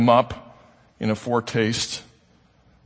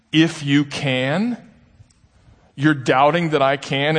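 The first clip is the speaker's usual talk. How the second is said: direct, slow echo; slower than usual. Retold or imitated. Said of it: "Jesus is very direct with him".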